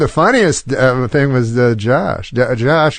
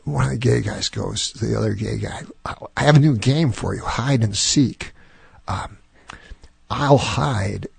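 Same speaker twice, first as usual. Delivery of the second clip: quiet, plodding impression of a poor joke-teller; imitating a halting intern; 5 dB quieter than usual. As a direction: tell the joke haltingly, with long gaps and ums. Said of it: "this is how he talks".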